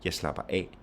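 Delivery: only final "af" stressed, "Jeg slapper" light. Shown as a demonstration. Teacher showing phrasal verb, stress only on "af". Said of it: "we only stress the final one".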